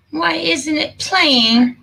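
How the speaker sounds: exasperated. Real, not acted. Video won't play, frustrated.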